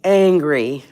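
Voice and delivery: loud, forceful bark of a word; angry. Shown as a demonstration. Contrasting anger with calm for the listeners, loud and forceful. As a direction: spit the word out like you're mad. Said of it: "So remember this".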